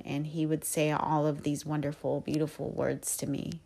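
ordinary talk, nothing marked

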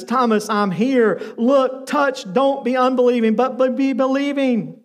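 slow, sweetly insistent invitation. Retold or imitated. Jesus inviting doubting disciple to touch, sweetly. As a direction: gently urge him to believe. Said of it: "the sweet voice of Jesus".

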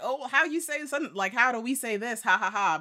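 high-pitched, perky imitation of posters; mock online poster. Mocking people who ask online how we say this, high mimicry. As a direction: mimic them with a high, put-on fake laugh.

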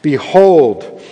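measured, solemn Bible reading; scripture reading. Acted. Pastor reading the Gospel to the congregation, solemn reading. Reads Matthew passage aloud.

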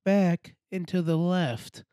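tour guide impression. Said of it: "they go like this".

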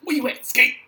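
laughing, mocking call; laughing mock taunt. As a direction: cackle out the taunt.

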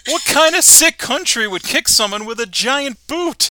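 high, loud indignant Homer; Homer's voice, loud and high. Acted. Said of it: "Homer says".

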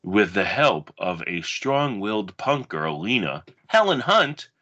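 dramatic blurb reading, measured pace; movie blurb read. Acted. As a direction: read it like a video box cover. Reads a movie back cover.

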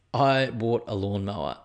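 slow, every word "I bought a lawnmower" weighted; slow dramatic restatement. Shown as a demonstration. Proudly announcing the new lawnmower to listeners, slow. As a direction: lean into "I bought a lawnmower" slowly, like big news.

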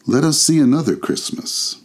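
high voice of a ghostly guide; thoughtful ghost. A narrator's reading. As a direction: usher the listener onward as a spirit. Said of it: "The ghost smiled thoughtfully".

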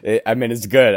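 words through helpless laughter; real giggling, slowed by laughs; laughing. Real, not acted. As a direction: laugh while you complain. Laughing at friend's voice.

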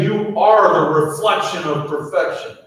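lifted, bright affirmation. Acted. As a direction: call it out to lift the room. Pastor lifts the congregation's affirmation.

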